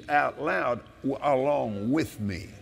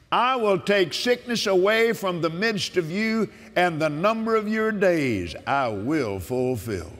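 preaching with force; 2 semitones higher than usual. Acted. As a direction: declare it like a sermon. Proclaims scripture.

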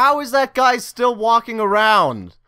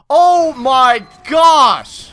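slow, louder exasperated oh my gosh; drawn-out groan; 5 dB louder, much slower than usual. Real, not acted. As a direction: stretch it out in disbelief. Dies again.

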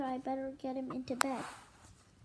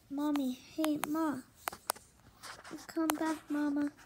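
calling out; 2 semitones higher than usual. Acted. Tadpoles calling after mom.

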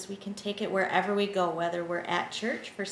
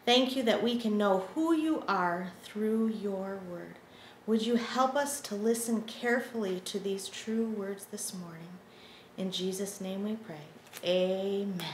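prayer. Acted. Leads a children's prayer.

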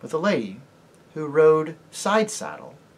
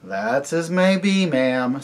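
guarded, stiff reply; marsh-wiggle answering a stranger stiffly; 5 dB louder, slower than usual. Acted. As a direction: keep it curt and wary. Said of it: "very stiffly and on his guard".

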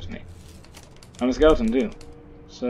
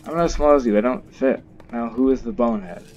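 louder, bossy seagull telling him off; a cheeky seagull jeers at the skeleton, loud mock scolding; 5 dB louder than usual.

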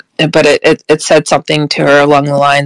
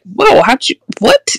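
re-enacted startled reaction, pitched up; astonished; 5 semitones higher than usual. Woman reacting to friend's creature-on-the-car story, astonished. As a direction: leap higher on a stunned question.

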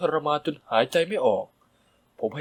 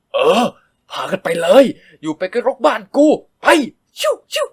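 much louder, higher jeering; scornful yell; 7 semitones higher, 9 dB louder than usual. A narrator's reading. Stepmother yelling at mother and son to leave. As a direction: shout them out of the house.

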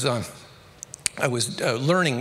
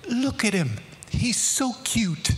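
higher, slow, laughing fond tease; amused teasing; 8 semitones higher, slower than usual. Retold or imitated. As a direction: laugh as you show off the newbie. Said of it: "and he goes".

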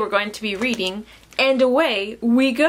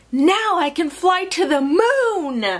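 higher, eager storybook fox; excited; 5 semitones higher than usual. Acted. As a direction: exclaim it with rising delight. Fox excited about the trip.

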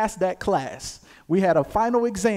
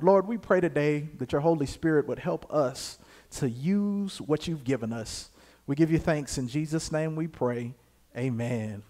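subdued prayer, dropping softer toward the amen; 3 semitones lower, 4 dB quieter than usual. Real, not acted. Preacher prays for the Holy Spirit's help, subdued prayer. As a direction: pray quietly over the word.

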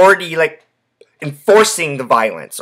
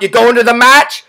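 higher-pitched mock yell to a passer-by; imitated yell; 6 semitones higher, 4 dB louder than usual. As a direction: call it out like hailing a fellow fan. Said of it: "they'd fucking yell out".

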